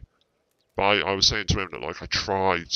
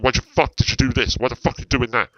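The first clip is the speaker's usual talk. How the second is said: mock angry shouting; 5 semitones higher, 4 dB louder than usual. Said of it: "He's like".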